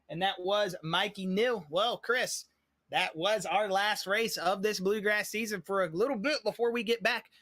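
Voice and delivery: muffled, hand covering mouth; talking through a hand over the mouth. Real, not acted. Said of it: "I put my hand over my mouth".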